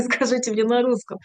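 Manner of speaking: says it through a laugh. Real, not acted. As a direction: laugh while repeating the request. Repeats request, laughing. (зі сміхом)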